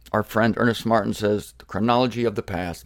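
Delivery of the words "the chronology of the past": low, easy, gentle reading; relaxed, lower-pitched gentle phrasing. Acted. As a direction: read it kindly, pitch dropped. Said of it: "Much more gentle, a kinder, gentler".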